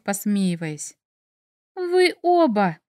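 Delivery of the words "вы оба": much higher, slow indignant cry. A narrator's reading. Heroine scolds teasing Tim and Mik, slow indignant cry. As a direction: drag it out, outraged at both. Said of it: "возмутилась я".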